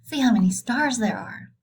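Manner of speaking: sentence read with excitement; excited read. Shown as a demonstration. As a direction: read it like an exclamation. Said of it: "So I should say that's excitement".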